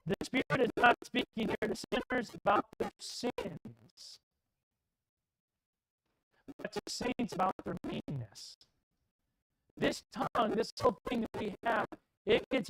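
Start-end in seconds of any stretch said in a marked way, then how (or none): 0.1-8.6 slow quoting. Shown as a demonstration. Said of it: "quote it right".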